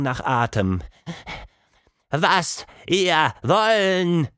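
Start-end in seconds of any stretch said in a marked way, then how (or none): 2.1-4.3 slow, higher panting mouse voice; a broken-speaking little mouse. A narrator's reading. The breathless mouse to its captors, slow mouse voice.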